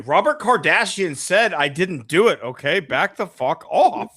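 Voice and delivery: hammed-up O.J. bluster; mock O.J. defiance. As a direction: bark it like a cornered celebrity. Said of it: "Like O J".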